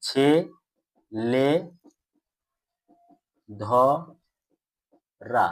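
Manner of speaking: ছে, লে, ধ, রা with long pauses between; each of ছে, লে, ধ, রা standing alone; syllable by syllable. Shown as a demonstration. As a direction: sound out ছে, লে, ধ, রা for pupils to repeat. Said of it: "উচ্চারণ করো".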